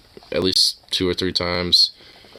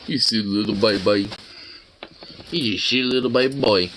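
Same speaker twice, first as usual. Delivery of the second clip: talking to a dog. Real, not acted. Cooing at pet.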